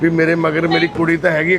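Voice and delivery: ordinary delivery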